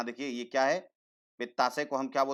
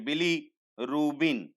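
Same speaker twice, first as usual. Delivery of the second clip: slow pointing out; much slower than usual. Shown as a demonstration. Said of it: "Hindi में भी बोलते हैं".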